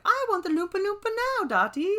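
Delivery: put-on high, fast bratty little girl demanding; Veruca Salt impression. Mimicking a spoiled girl demanding candy, high and bratty. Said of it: "I can't ever do that accent".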